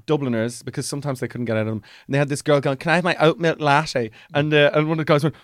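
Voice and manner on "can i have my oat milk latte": imitating a Dublin girl's accent; mock Dublin accent. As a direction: lightly send up a Dubliner. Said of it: "they were all slagging Dubliners".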